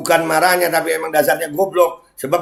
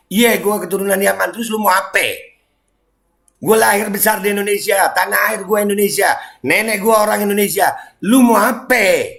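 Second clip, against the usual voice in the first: defiant challenge; 4 semitones higher than usual. Real, not acted. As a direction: push back hard at the haters. Defiant rant at racist critics. (nada menantang, lebih tinggi dan keras)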